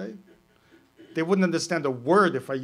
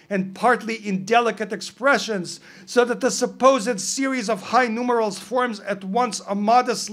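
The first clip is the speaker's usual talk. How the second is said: louder, formal reading of a quoted passage; reading a quote aloud; 6 semitones higher, 8 dB louder than usual. Shown as a demonstration. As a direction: read it like a dry scholarly citation. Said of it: "Let me read you something".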